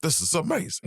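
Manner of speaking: high, gushing fake amazement; mock awe. Writers admiring their own script, mock gushing and high. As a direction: swoon over it in a high mock voice.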